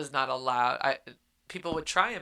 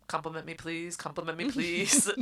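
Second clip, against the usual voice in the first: mock fishing for compliments; 2 semitones higher than usual. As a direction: jokingly beg for praise. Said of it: "Fishing here".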